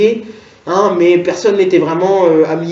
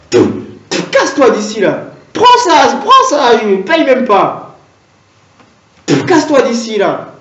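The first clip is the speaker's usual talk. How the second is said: cashier shooing him; 2 semitones higher than usual. Acted. Cashier chasing the customer out, mock anger. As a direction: shove him away with words. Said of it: "la caissière qui me guette en mode".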